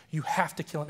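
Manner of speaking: firmer, fuller retold command, not shouted. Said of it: "it got so loud".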